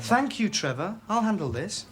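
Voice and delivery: firmer, pointed thanks; insistent dismissal. Acted. Teacher silencing Trevor a second time, insistent. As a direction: shut the interruption down with emphasis. Repeats dismissal more firmly.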